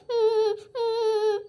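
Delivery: crying. Acted. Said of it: "ಯಾಕ್ ಅಳ್ತಾ ಇದೀಯಾ?".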